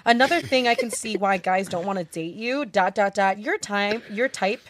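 over-the-top reading of a hate message; dramatic voice. Pretend. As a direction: read it like a melodramatic villain speech. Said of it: "Read it in a dramatic voice".

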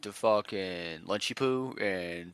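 lightly voiced slow surfer bro; a hint of Cali surfer slang-speak. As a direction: drag it out like a laid-back bro. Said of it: "it's like the Cali surfer bro vibe".

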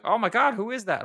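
high, loud mock shriek of fright; squealing in fake panic; mock startled shriek. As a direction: ham up a spooked scream. Mimicking startled actress.

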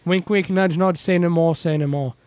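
put-on botched British accent that slips toward Australian; failed Eric Idle accent drifting Australian; bad British accent. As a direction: try a British Monty Python line and miss. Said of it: "that sounded a little more like a shitty Australian accent than British".

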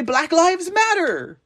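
high, slow put-on voice of a street mugger; high mocking caricature voice. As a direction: sneer it out as an imagined mugger.

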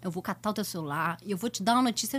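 low, soft, reassuring promise; imitating sweet staffer. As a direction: play the kindly helper, hushed and low. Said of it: "um cast member super fofo".

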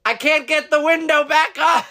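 high plea. Retold or imitated. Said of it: "she goes".

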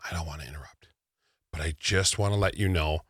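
soft, low, hesitant approach; sweet, kind fan. Retold or imitated. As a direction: politely interrupt in a small, quiet voice. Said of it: "she was so sweet, and she was so kind".

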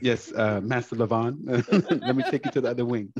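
cowed obedience. Pretend. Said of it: "my butler to carry me".

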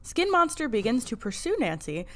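measured, read-aloud episode summary; recap narration. A narrator's reading. Podcast host reads listeners the episode recap, narration. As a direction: narrate the plot like a storyteller.

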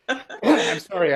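apologizing through a cough; slow, interrupted by coughing; coughing fit. Real, not acted. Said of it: "I'm coughing".

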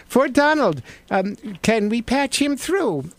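high, bright-pitched desk clerk; receptionist voice. Pretend. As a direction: answer the phone like a perky receptionist. White House receptionist takes call.

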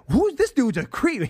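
high, drawn-out incredulous question; slow, high mock outrage; mock disgust. Voicing viewers' disgusted reaction.

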